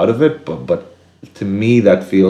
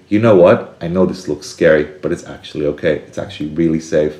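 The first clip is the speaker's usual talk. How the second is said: reassuring. Shown as a demonstration. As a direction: gently talk a scared kid onto the ride. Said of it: "Or you could say".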